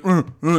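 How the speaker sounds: short mock eating grunts; imitated grunting. Podcaster mimicking the reviewer taking a bite, mock grunts. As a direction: grunt like you are chewing a bite. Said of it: "he starts grunting like".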